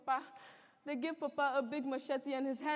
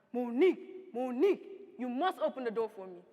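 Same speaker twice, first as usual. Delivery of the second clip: loud coaxing call; calling through the door; 5 dB louder than usual. Acted. Uncle calling his niece from outside the door, loud. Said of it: "Tonton Andre is actually yelling outside her house".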